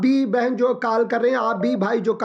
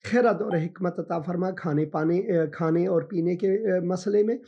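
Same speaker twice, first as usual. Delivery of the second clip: prayer; 3 dB quieter than usual. Acted. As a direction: pray gently over the caller. Pastor prays for caller.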